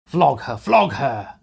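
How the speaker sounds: loud, high urging; egging shouts. A narrator's reading. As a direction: goad him on. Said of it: "shouts were heard in the crowd".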